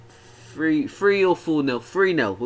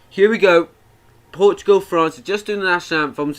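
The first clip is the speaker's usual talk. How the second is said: excited; 4 semitones higher, 5 dB louder than usual. Real, not acted. Kickoff hype on stream.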